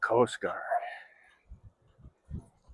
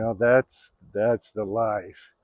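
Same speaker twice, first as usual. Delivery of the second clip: put-on kid's dreamy awe; 7 dB louder, much slower than usual. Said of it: "you're thinking".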